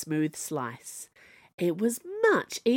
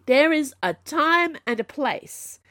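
high, loud exasperated howl; 10 semitones higher, 6 dB louder than usual. Acted. Zee yelling at the kissing pair, loud howl. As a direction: howl it at them both. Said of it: "Zee howled at them both".

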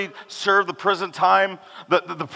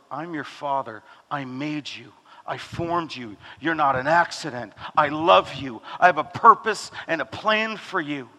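tender father; 4 semitones lower than usual. Acted. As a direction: speak like a loving father to his child. Pastor voicing God to his child.

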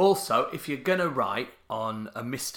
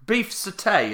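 "satay" as suh-TAY, higher at the start; last-syllable stress; 6 semitones higher, slower than usual. Retold or imitated. Co-host checking his friend's version, "satay" as suh-TAY. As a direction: weaken the first vowel of "satay", hit "tay". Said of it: "are you saying?".

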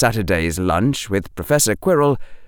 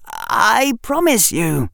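put-on higher, slow earnest boy; young boy voice; 11 semitones higher, slower than usual. A narrator's reading. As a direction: promise it slowly and sincerely. Harry voiced in story.

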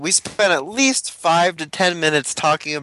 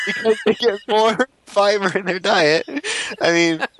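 laughing; 4 semitones higher than usual. Real, not acted. Laugh heard mid-line.

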